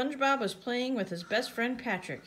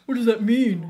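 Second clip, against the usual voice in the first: loud, puzzled question; Patrick; 3 semitones higher, 10 dB louder than usual. A narrator's reading. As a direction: ask it loudly like a clueless pal. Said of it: "said Patrick".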